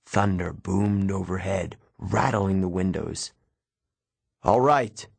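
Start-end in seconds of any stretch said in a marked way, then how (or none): 4.4-5.1 raised voice, mildly shouted; exasperated shout. A narrator's reading. Mentor yelling back at thunder, restrained shout. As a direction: give in with an understated shout. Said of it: "Chiron shouted".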